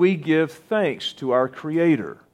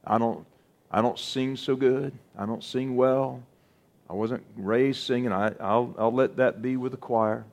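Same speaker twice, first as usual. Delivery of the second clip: softer, quietly mumbled excuse from an unwilling singer; mock reluctant excuse; 4 semitones lower, 7 dB quieter than usual. Preacher voicing a congregant who won't sing, in a soft, mumbled, mock-reluctant tone. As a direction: shrug it off under your breath. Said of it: "some of you out there saying".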